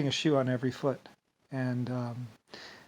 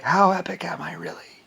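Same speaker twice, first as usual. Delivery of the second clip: self-mocking; 4 semitones higher, 4 dB louder than usual. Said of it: "I would yell at myself".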